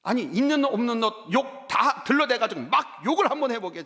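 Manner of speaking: 신나게 부추기듯; urging to curse. Retold or imitated. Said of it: "제가 그랬어요". (욕해 보라고 부추기는 목사)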